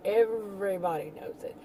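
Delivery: stretched "everybody", lightly mocking; know-it-all attitude. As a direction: mimic a sweeping claim, drawing out "everybody". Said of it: "When they have that whole attitude".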